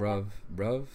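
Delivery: "bruv" said as one syllable, ending in V; demonstrating bruv. Shown as a demonstration. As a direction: show how "bruv" is said, with a final V. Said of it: "how do you say it?".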